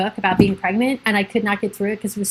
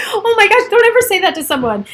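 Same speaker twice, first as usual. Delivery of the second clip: higher and louder, scandalised; outraged disbelief; 11 semitones higher, 5 dB louder than usual. Retold or imitated. Scolding the divorce book author for viewers, indignant. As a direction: protest like the advice is unthinkable.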